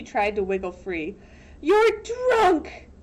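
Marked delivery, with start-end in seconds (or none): 1.6-2.9 high, loud furious yell; outraged shout; angry yell. Acted. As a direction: throw it in his face. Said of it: "she yelled".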